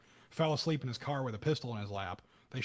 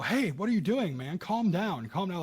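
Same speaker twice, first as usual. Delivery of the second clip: high, loud mock shouts of "calm down"; imitated bystanders yelling; 6 semitones higher, 4 dB louder than usual. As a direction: call out to the cop like an alarmed bystander. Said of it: "people go".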